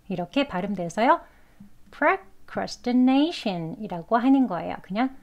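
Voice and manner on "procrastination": procrastination slowly, with weak "pruh" and "tuh"; reduced conversational pronunciation. Shown as a demonstration. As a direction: reduce the unstressed vowels of procrastination to schwa. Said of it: "그래서 그냥 약하게". (procrastination을 '프러-크래스-트-네이션'으로 약하게)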